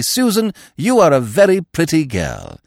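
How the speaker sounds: high, playful flirt; mock flirting. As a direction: woo her with a grin. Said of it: "Go to her and say".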